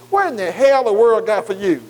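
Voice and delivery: a mocking friend scoffing at going back to church; mocking worldly friends. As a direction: jeer at the believer like a worldly crowd. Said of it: "he tried to get them to say".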